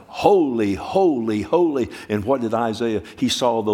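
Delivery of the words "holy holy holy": cherubim crying out. Retold or imitated. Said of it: "the cherubim were crying out".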